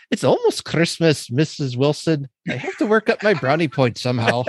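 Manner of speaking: hint of an Irish accent, drifting Scottish; a bad Irish priest accent, half-hearted; Irish accent impression. Priest answering the housekeeper in a mild Irish accent. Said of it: "he's got this kind of vague Irish accent".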